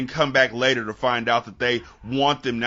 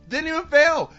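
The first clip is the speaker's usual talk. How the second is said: exasperated shout; 12 semitones higher, 6 dB louder than usual. Real, not acted. Repeats in exasperated outburst.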